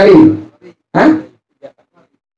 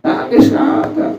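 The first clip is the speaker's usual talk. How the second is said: soft answer; 9 semitones higher, 5 dB quieter, slower than usual. Shown as a demonstration. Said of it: "Jangan pakai kita apa?".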